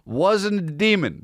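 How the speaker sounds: high, slow line broken by real laughter; laughing. Real, not acted. Podcaster cracking up at his own demon joke, laughing. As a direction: laugh the words out.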